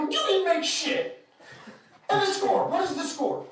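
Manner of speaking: high, loud, emphatic mock outrage; retold exasperated yelling. Arguing with the fan over the score, exasperated yelling. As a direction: demand it as if losing all patience.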